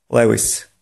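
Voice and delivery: "Lewis" said as LEH-vees, the Polish way; mispronounced Levi's. Shown as a demonstration. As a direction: say the brand Levi's as "Lewis", with short vowels. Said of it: "nieprawidłowa wymowa w języku angielskim może brzmieć". (błędna polska wymowa: "Lewis" zamiast „liwajz”)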